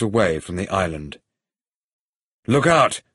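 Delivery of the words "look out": raised, higher-pitched cry of alarm; urgent warning. Acted. Hero warns companion as rope runs out, urgent. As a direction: call out a sudden warning.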